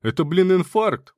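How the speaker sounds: high, loud cry of alarm; alarmed shout. A narrator's reading. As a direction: raise the alarm. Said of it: "услышал я крик Мансура".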